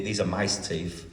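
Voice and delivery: slow, low and soft put-on voice; imitating an odd voice, quietly and slowly. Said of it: "do it in your normal voice".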